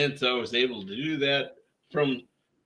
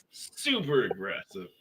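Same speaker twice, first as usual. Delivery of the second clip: whisper; 5 semitones lower, 7 dB quieter than usual. Real, not acted. Sarcastic aside after being teased.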